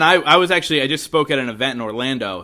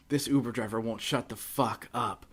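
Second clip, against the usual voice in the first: muttered aside; 7 dB quieter than usual. Retold or imitated. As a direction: grumble it under your breath, slowly. Imitating Bert's Instagram story.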